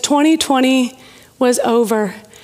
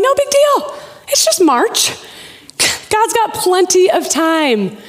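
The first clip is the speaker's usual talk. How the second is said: breezy reassurance; 5 semitones higher than usual. Retold or imitated. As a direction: wave it away as no problem. Acting out her earlier breezy optimism.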